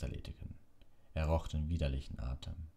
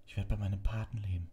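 Harry's voice; 6 semitones higher than usual. A narrator's reading. Harry's hopeful thought voiced.

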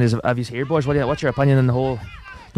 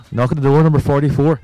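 bingo caller; 6 dB louder than usual. Pretend. Bingo winners just announced.

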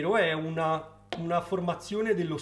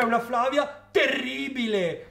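higher, relished "terribile"; teasing emphasis; 5 semitones higher, slower than usual. Real, not acted. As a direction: lean hard on the word for comic effect. Teases with evil opposite Flavia.

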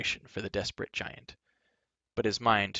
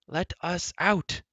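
demanding; 8 semitones higher, slower than usual. A narrator's reading. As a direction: drag it out as a demand. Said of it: "Terran demanded again".

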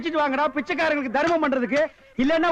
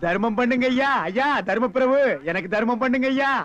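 beggar's alms call; 2 semitones lower than usual. Acted. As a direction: call out for alms, stretching each final word. Acting a beggar calling for alms.

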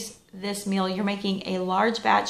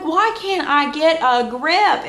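exasperated self-talk; 7 semitones higher, 6 dB louder, slower than usual. Retold or imitated. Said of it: "I'm like".

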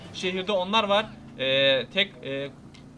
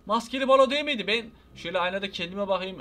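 usual speaking voice

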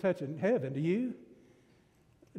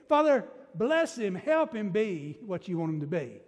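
fervent prayer. Retold or imitated. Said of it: "put Tom in there big time".

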